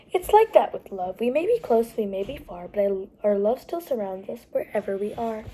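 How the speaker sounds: gentle lilting picture-book read; reading to children. A narrator's reading. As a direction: storytime voice for little listeners. Reads a picture book aloud.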